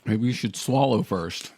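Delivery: slow advice through laughter; laughing tease. Real, not acted. Co-host teasing Dave about his full mouth, laughing. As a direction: tease them while laughing, taking your time.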